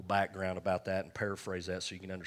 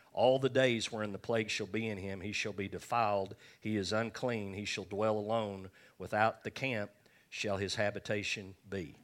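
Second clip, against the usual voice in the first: scripture reading. Acted. Reads Leviticus aloud from King James.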